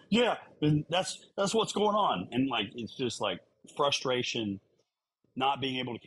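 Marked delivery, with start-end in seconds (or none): 0.1-2.3 much higher, louder, slow mock-frantic voice; frantic texting Laura. Co-host voicing Laura's texts, hammed-up frantic. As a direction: act out the panicked text. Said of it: "I get text messages like".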